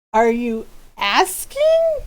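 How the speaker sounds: slow, stretched-out incredulous question; retold disbelief. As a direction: draw it out as if stunned. Stunned by an implied proposal.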